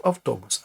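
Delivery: «автобус» з наголосом на «о»; наголос на передостанній склад. Shown as a demonstration. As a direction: say «автобус» as av-TO-bus, middle syllable stressed. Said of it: "то було б". («автобус» з наголосом: авТОбус)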